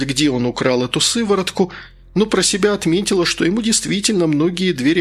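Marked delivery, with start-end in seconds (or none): none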